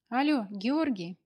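slow, joyful breathless shout; breathless joyful call. Acted. Anya phoning Georgy, breathless and joyful. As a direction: call out to him, panting with joy. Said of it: "радостно задыхаясь, прокричала она в трубку".

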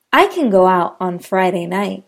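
"can" weak, sentence flows past it; unstressed can. Shown as a demonstration. Teacher repeating the can sentence, "can" unstressed. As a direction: say "can" lightly. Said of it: "Listen for the can and can't".

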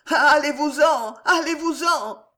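high, loud moan of panic; wailing plea. A narrator's reading. Innkeeper hanging over the void begging servants, wailing. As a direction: wail at them to leave. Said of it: "gémit l'aubergiste".

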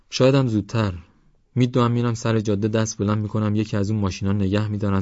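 eager youngster boasting of running away; defiant young Parvaz. Acted.

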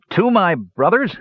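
slow, high toast, a touch husky. A narrator's reading. Palin toasting his brothers, huskily. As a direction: raise a slow, heartfelt toast. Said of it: "he said huskily".

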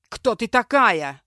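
медленный громкий рык, чужим голосом; рявкни, нависая над пленницей; рявкнул. A narrator's reading. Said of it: "рявкнул Кастал". (грозный окрик)

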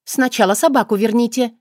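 emphatic condition to the demon; pointed demand. Acted. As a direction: make the point land. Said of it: "произнесла красноречиво".

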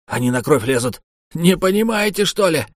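high, loud enraged yelling; furious shouting. A narrator's reading. Tokhu ordering everyone away, furious shout. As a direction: scream at them to leave now. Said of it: "заорал Тоху в ярости".

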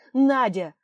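a desperate loud call; shouting to her. Acted. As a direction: yell it while being dragged off. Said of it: "Он крикнул".

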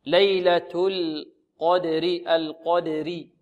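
ليلة القدر very slow, thin lam, thin final ra; slow tajweed model. Shown as a demonstration. Teacher recites ليلة القدر slowly for students. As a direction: draw out ليلة القدر, ra kept light. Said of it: "والراء هنا ترقق".

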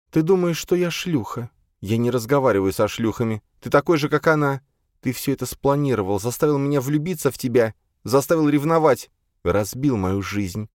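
high, wounded tirade; bitter accusation. A narrator's reading. Elfrida to Flapping Eagle, accusing him of ruining her life.

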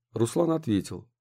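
ordinary delivery, nothing marked

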